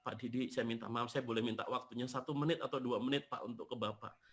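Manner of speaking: soft, subdued retold request; retold tearful plea. Destitute man asking the speaker for a minute, retold tearful plea. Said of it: "Saya lihat beliau sambil nangis".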